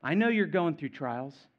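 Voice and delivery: put-on gently steady a struggling child, easing down in volume; a hint of a caring dad's firm counsel; loving father. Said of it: "A loving father saying".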